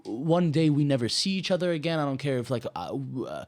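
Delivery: a lover who doesn't care what happens next, said high and loud; excited carefree voice. Retold or imitated. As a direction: belt it like nothing else matters. Voicing carefree lover passionately.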